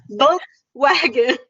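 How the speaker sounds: Volkswagen, slow, bite then kiss; slow model word. Shown as a demonstration. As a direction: demonstrate it slowly. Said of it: "So first bite and kiss".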